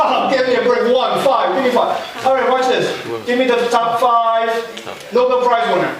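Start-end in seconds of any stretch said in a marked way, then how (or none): 0.0-2.2 laughing disbelief. Real, not acted.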